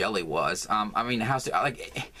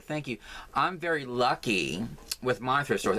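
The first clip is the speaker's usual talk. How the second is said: mock bragging, a touch smug; lightly hammed-up gloat over her own luck; snarky; 3 semitones higher than usual. Mocking the AI's suggested reply to a commenter, snarky. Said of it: "that sort of sounds, like, really snarky".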